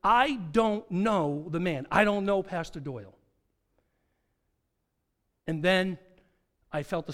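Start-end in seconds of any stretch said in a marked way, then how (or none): 0.0-3.1 vehement denial. Acted. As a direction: deny it word by word. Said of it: "I vehemently decry".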